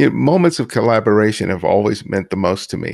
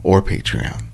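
announcer read. Acted. Podcast outro read over music.

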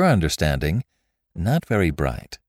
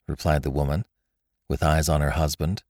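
plain reading voice

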